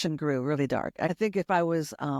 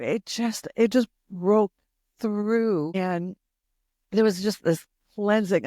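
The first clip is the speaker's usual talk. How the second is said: tearing up; 3 semitones higher than usual. Real, not acted. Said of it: "I'm sorry, I just".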